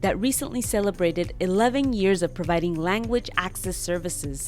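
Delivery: upbeat sponsor read over music; smooth, even host ad read. Acted. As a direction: sell it like a podcast ad spot.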